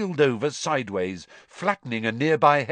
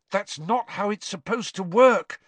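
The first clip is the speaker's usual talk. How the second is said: higher, mildly angry protest; a touch of irritation; 7 semitones higher than usual. A narrator's reading. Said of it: "He felt angry".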